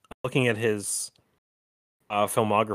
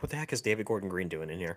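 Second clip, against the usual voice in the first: softer, half-whispered aside; retold whisper; 7 dB quieter than usual. Whispering over to co-host during the movie, mock hushed. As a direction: lightly imitate whispering to a companion. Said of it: "'cause I whispered over to you".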